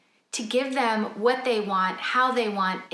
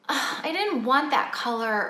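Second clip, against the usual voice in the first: grumbling complaint; 4 semitones higher than usual. Retold or imitated. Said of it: "grumble and complain".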